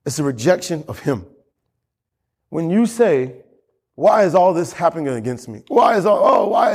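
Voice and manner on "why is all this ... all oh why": mock shout. Voicing complainer.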